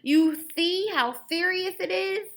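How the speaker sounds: high, loud, slow toothless moan; Grandpa moaning. Acted. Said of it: "he moaned".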